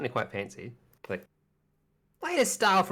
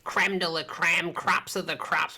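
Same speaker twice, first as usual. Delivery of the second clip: salesy shopkeeper; 3 semitones higher than usual. Acted. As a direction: sell it like a market hawker, lifted. Shopkeeper pitching in voice.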